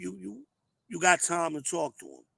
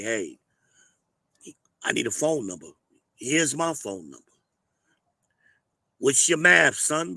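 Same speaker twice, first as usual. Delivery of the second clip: son asking for number; 5 dB louder than usual. Retold or imitated. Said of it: "However you wanna say it".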